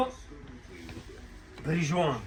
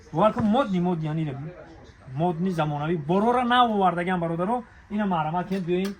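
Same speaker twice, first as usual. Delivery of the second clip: louder hawker's call to customers; loud sales pitch; 6 dB louder than usual. Acted. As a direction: push the new goods like a street vendor. Loudly touting new stock.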